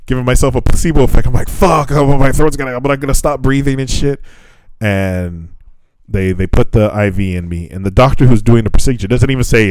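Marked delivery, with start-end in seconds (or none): 1.5-4.2 higher, halting mock panic; retold panic. Patient fears throat closing after spray, mock panic. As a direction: act out mild panic, tripping over words. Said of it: "And so I'm panicking".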